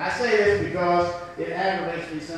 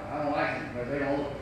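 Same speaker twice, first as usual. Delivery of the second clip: lower, softer, fast dismissive mutter; childish mocking; 7 semitones lower, 8 dB quieter, faster than usual. Preacher imitating teens mocking looks, quick low sneer. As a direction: toss it off like a mean teen. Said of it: "They mock them".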